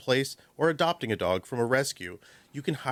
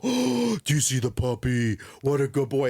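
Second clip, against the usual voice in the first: bright gasp into praise; excited praise. Shown as a demonstration. Trainer showing dog another dog, excited praise. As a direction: sell the puppy with delight.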